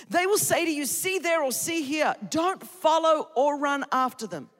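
lifted, declamatory Bible reading; scripture reading. Acted. Preacher reading Luke to the church, scripture-reading style. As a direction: read the passage out to a full room.

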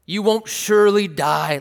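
"surely" punched loud and high; forceful denial with the weight on "surely"; emphatic statement. Acted. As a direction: lean hard on "surely" as a flat contradiction. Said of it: "there's this emphatic gesture".

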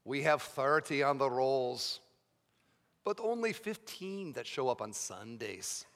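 imitating a Scottish pastor; lightly put-on, practised Scottish accent. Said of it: "he said in this Scottish accent".

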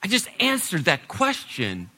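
exasperated disbelief, held back in volume; mildly acted exasperation; impatient, frustrated. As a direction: protest as if asked the same thing twice. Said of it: "getting a little, uh, uh, impatient and frustrated".

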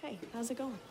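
a passing cop tossing off a hello; cop's offhand hello. Retold or imitated.

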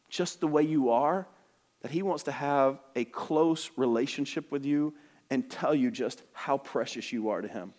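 soft, tender words of comfort; gentle reassurance. Retold or imitated. Pastor comforting a tearful girl, softly and tenderly.

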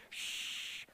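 a sharp whispered hush; the crowd hushing a blind beggar; whispered shush. Acted. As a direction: hush him quietly.

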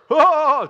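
sudden loud, high whoop; mock laughter outburst. Worshipper breaks out mid-service, mock laughing outburst. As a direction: imitate someone bursting out in holy laughter. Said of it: "breakout of laughter".

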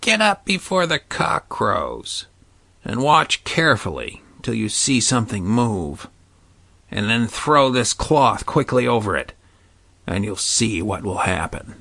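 lightly voiced secretive old witch. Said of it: "The witch said".

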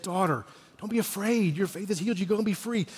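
soft, tender words of comfort; gentle reassurance. Retold or imitated. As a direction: reassure her softly, as if to a daughter. Jesus reassuring the healed woman.

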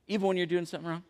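soft, quiet asking; gentle fatherly question. Retold or imitated. Dad questions his son, soft and gentle. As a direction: imitate a dad checking softly.

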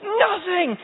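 high, loud, slow smug grandma; mock self-righteous grandma. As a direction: lampoon her stubborn pride. Mocking grandma's self-righteous claim.

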